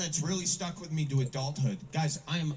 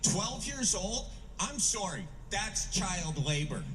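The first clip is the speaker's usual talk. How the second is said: retold heckle; 4 semitones higher, slower than usual. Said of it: "somebody shouted back".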